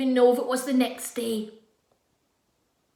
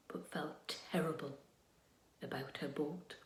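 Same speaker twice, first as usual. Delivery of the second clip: whispered narration; 10 semitones lower, 15 dB quieter than usual. A narrator's reading. Storytelling hush.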